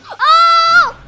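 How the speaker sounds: startled oh. Real, not acted. Sees cute creature.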